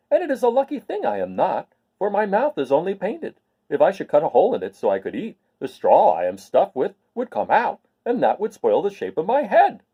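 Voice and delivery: a cheerful scarecrow explaining himself. Acted. Scarecrow telling Dorothy about his painted mouth, lightly voiced.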